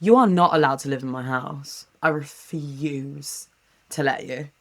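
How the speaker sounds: low, measured pretend banishment; understated stern refusal, played for laughs; mock refusal. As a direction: lay down the law, slowing and softening. Mock banishing of a haunted child.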